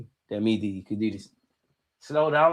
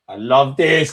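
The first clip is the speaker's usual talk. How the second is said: I love this, louder and punched out; louder gloat; 6 dB louder, slower than usual. Real, not acted. Vlogger celebrating Liverpool's loss, louder gleeful gloat. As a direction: let the gloat burst out louder.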